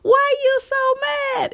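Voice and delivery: hammed-up crowd cry at a poet; crowd yelling. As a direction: call it out like a hyped-up crowd. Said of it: "they would scream at him".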